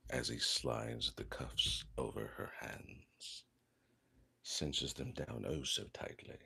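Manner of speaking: a hint of a British audiobook narrator; British accent. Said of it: "I slipped into a British accent there".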